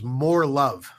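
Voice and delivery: a mild hint of glee; lightly imitating a happy local. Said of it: "said very gleefully a saying".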